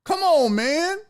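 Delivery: very high, pleading whine; whiny dog. Acted. Streamer voices the dog whining at the bully cat, high. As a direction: complain like a hurt pet. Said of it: "That dog like".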